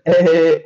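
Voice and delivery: spoken, fake "he he he"; put-on joking chuckle; mock laugh. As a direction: pretend laugh in even beats. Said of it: "हसायचं नाही".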